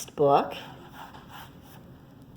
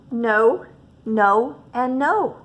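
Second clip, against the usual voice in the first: louder and louder no; a child's emphatic triple no; firm refusal; 4 semitones higher, 6 dB louder, much slower than usual. Acted. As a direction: turn each offer down hard. Girl refusing pets.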